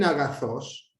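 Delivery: AGATHOS accented on the last syllable THOS; final-syllable accent on AGATHOS. Shown as a demonstration. Teacher showing accent position, last-syllable accent on AGATHOS. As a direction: say AGATHOS slowly, leaning on THOS. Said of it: "en la última".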